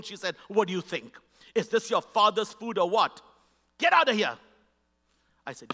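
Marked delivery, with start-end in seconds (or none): 0.5-4.4 scornful, building to a louder get out; contemptuous server. Retold or imitated. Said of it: "very contemptible tone".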